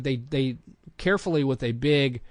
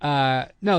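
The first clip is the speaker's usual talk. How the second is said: ordinary talk, nothing marked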